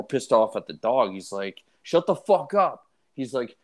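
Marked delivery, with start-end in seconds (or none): 1.8-2.9 retold angry snap. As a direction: imitate a drunk guy losing patience with a dog. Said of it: "he's getting more and more intense".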